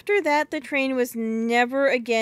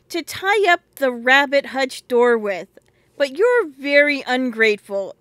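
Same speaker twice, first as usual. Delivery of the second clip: indignant; 6 dB louder than usual. Acted. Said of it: "said Phyllis indignantly".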